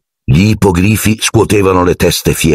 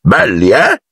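higher, rising invitation to admire; cheerful pride; 4 semitones higher, slower than usual. A narrator's reading. Hagrid shows off the hippogriffs, cheerful. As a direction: ask it with proud delight. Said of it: "ruggì allegramente Hagrid".

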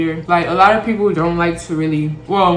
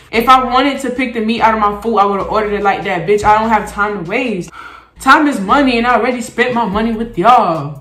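mock complaint; 3 semitones higher, 4 dB louder than usual. Mock complaint to the pizza place.

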